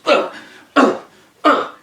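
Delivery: short effortful grunts; spaced puffs of exertion; swimming grunts. Acted. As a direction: grunt with each swimming stroke. Imitates cat pounding through water.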